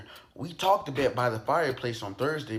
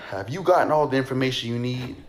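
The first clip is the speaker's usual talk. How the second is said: louder, fast and impatient; curt annoyance; 6 dB louder, faster than usual. Acted. Husband cutting the detectives off, fast and sharp. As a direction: hurry them out the door. Husband fed up, ordering them out.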